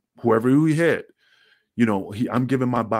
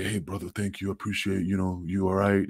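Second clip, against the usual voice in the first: softer, caring check-in; gentle concern; 4 dB quieter than usual. Retold or imitated. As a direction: ask softly if he's all right. Balls thanking him backstage.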